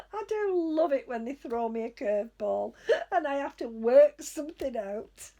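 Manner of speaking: real amused laughter; laughing. Real, not acted. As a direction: laugh at being thrown a curveball. Laughing at the curveball.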